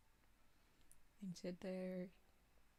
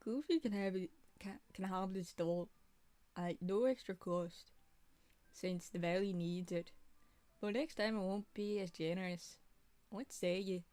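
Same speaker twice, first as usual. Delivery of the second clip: character voice; 4 dB louder than usual. Acted. Voicing a game character's line.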